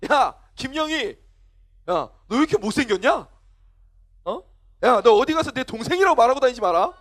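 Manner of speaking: mock older-brother taunting; picking a fight. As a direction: needle a younger sister, lightly acted. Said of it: "괜히 시비부터 걸어".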